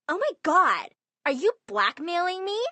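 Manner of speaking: high, loud shocked gasp; outraged disbelief. Acted. Sister caught being blackmailed, high shocked outrage. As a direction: recoil in disbelief.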